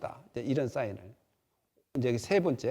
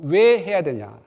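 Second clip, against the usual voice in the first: loud why; 6 dB louder, slower than usual. Acted. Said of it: "논리적인 사람은".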